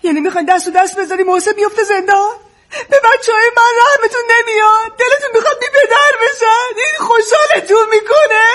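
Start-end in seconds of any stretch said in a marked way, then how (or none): 3.6-8.5 a crying shout; tearful accusation. Acted. Sister accusing her father and brother, crying and shouting. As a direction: hurl the question at them while weeping.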